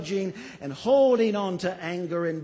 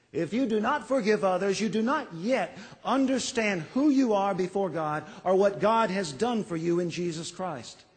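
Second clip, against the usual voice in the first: faster and higher, pressing the point home; quicker, higher insistent restatement; urgent repeat; 3 semitones higher than usual. Shown as a demonstration. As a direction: drive it again with rising urgency.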